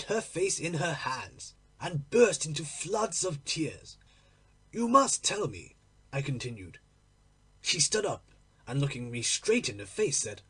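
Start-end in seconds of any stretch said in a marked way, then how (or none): 4.7-5.8 higher, louder, pressing her hard; insistent demand. Acted. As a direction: push for the answer, raising the voice. Lover demands the truth.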